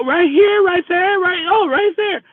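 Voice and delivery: put-on high, slurred drunk woman voice; mock drunk woman, high and sloppy. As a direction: play a tipsy woman pointing the way.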